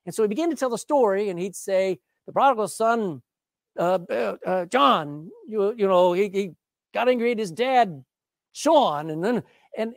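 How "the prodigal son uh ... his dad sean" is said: stumbling over names with uhs and restarts; fumbling preacher. Retold or imitated. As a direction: imitate a preacher losing track of the names. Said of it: "he fumbled it all up".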